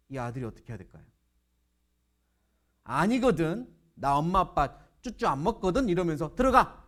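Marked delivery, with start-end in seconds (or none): 2.8-5.9 mildly indignant acted denial; louder, put-out comeback; defensive retort. Teased son retorts defensively. 6.3-6.8 sudden high, loud outburst; loud acted command; defiant shout. Son gives in, orders friends in.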